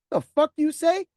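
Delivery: loud rising angry challenge; angry disbelief. Retold or imitated. Manager furious at driver's insult, loud challenge. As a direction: dare him to repeat it.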